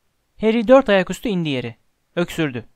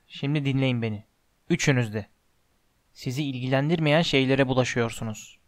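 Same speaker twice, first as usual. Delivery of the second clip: lower, a lightly voiced stern giant warning the kids; stern Hagrid; 4 semitones lower than usual. Hagrid warning Harry, Ron and Hermione to forget the dog, low stern voice. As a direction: warn them off, low and firm.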